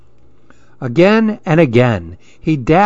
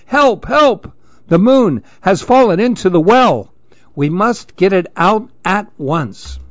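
high, panicky cries for help; frightened shout; 6 semitones higher than usual. Acted. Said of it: "terrified too and shouted".

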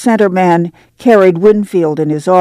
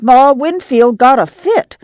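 cried; 8 semitones higher than usual. A narrator's reading. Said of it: "she cried".

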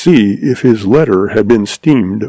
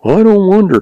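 chuckling; 10 semitones higher than usual. A narrator's reading. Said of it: "chuckled the stableman".

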